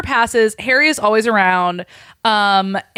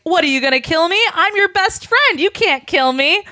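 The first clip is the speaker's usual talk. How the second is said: mock pleading Harry; 9 semitones higher, 3 dB louder than usual. Harry voiced pleading, high.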